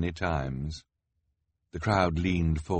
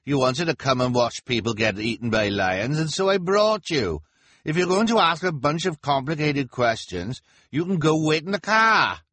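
much higher, louder exasperated husband; much higher, louder nagging husband; 10 semitones higher, 6 dB louder than usual. A narrator's reading. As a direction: scold the wife in a high whine. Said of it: "her husband said".

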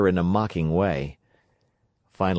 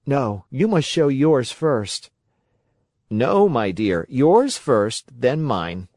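put-on high, lively boy character voice; boy puppet voice; 6 semitones higher, 3 dB louder than usual. A narrator's reading. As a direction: voice the young puppet.

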